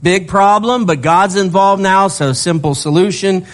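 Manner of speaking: cheerful sermon hype; upbeat excitement. Real, not acted. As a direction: sell the good news with energy. Excited preaching aside.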